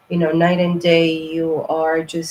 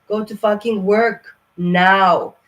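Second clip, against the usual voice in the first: louder, each word drawn out and hammered; loud slow command; 5 dB louder, slower than usual. Real, not acted. Reader commanding fire signs to work, loud and slow. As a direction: order them to get to work, slowly and loud. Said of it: "I hope I was not too crazy".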